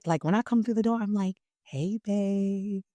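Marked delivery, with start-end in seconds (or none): 1.6-2.8 a gentle, tender "Hey, babe", a little softer; wife coming home greets her husband, gently softened; softened greeting. Retold or imitated. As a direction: greet your husband softly at the door. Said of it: "I soften my voice".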